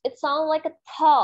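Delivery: slow model of "था"; th sound demo. Shown as a demonstration. English teacher slowly modelling "था" for the class. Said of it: "T H".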